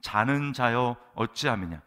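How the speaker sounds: loud, slow call to a sleeper; captain's rebuke. Acted. Ship's captain waking sleeping Jonah, loud and drawn-out. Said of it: "선장이 그에게 가서 이르되".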